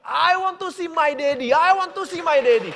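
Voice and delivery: put-on a girl calling for her father; daughter crying out. Daughter calling from her hospital room, loud and high. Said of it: "Anaknya berteriak".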